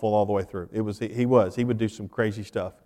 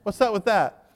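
higher, louder exasperated complaint; mock indignant protest; 7 semitones higher, 6 dB louder than usual. Husband protesting to his wife, mock indignant. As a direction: argue back, half-joking and outraged. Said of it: "I'm like".

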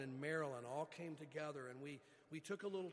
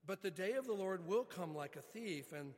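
rising into a louder, forceful scripture reading; 3 dB louder than usual. Acted. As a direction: read the passage with building force. Reads scripture passage.

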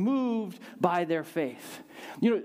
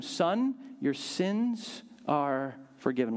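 tender Jesus; 2 semitones lower, slower than usual. Acted. Jesus speaks to the paralytic.

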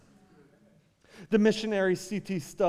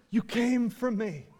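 voiced, softened quote inside an impassioned sermon; preacher quoting her with wonder; preacher's retelling; 5 semitones higher than usual. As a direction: repeat her words audibly, without the whisper. Repeats her response while preaching.

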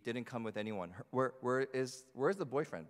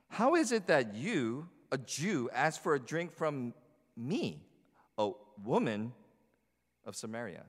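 curious; 2 semitones higher, 4 dB louder than usual. Acted. Samaritan woman questioning Jesus's request, curious. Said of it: "She's curious".

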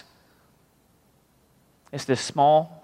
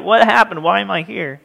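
mock confusion, pitched up at first; bewildered; 4 semitones higher than usual. Man waking wrapped like a mummy, bewildered. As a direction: act lightly startled and disoriented.

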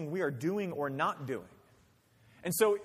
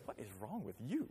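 judging onlooker; 8 semitones lower, 11 dB quieter than usual. Retold or imitated. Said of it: "looks at us and goes".

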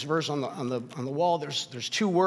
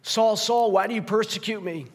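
commanding voice of Jesus; 5 semitones higher than usual. Acted. Voicing Jesus on Damascus road.

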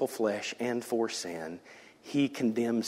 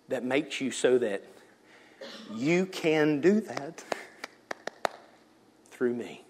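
ordinary talk, nothing marked

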